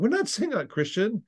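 "not" pitched high and leaned on; stress on not. Real, not acted. Pastor insisting to listeners, "not" pitched high and stressed. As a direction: hit the word "not" hard, insisting.

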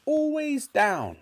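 very high, slow granny voice; menacing grandmother. A narrator's reading. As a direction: stretch out the command as a mean old woman. Grandmother ordering George about.

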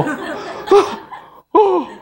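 put-on high, hesitant little-girl "어, 어"; flustered child stammer. (당황한 아이의 더듬거림)

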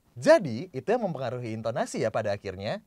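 "Jadi" punched at the very start; penekanan di awal. Shown as a demonstration. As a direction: hit "Jadi" first, then let the rest run. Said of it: "Lo pindahin-pindahin penekanan juga". (tekankan "Jadi" di awal kalimat)

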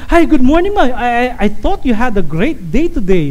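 lilting frontliner hello; courteous greeting. Acted. Frontliner greeting a customer, mildly put-on courtesy. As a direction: greet a customer politely, pitch lifted at first. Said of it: "you must be courteous".

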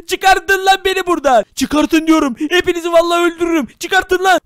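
bang on the bars and yell; angry yelling. Acted. Locked in jail, yelling. (öfkeli bağırış)

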